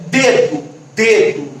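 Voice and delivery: dedo repeated with a closed E. Shown as a demonstration. Teacher demonstrating closed vowels, dedo with closed E. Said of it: "que é exatamente o que fecha".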